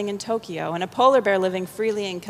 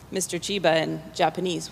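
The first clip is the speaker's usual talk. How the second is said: plain reading voice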